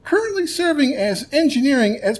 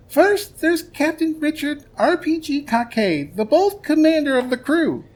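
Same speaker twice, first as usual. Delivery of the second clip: much higher, excited announcer; hyped announcer; 6 semitones higher than usual. Acted. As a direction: introduce the hero with big hype. Hyped cast introduction.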